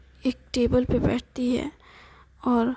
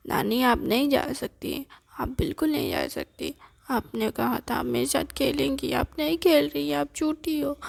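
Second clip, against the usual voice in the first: put-on upset child. Grandson calls his grandmother a liar, whining. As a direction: sulk like a kid who feels lied to.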